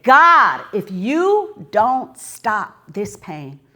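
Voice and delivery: loud, desperate cry to God; retold scream. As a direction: cry out to heaven from the edge. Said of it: "what I screamed on the top of".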